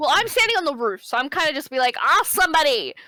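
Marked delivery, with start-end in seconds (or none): 2.0-2.9 really loud, carrying shout. Standing on a roof in the story, retelling a loud shout. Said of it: "He did really loud".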